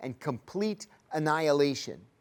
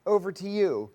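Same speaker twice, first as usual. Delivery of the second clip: slow, louder chirpy mock interviewer; hammed-up cheerful street interview; mocking her upbeat microphone pitch; mock reporter; 5 semitones higher, 4 dB louder than usual. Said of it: "interview people about".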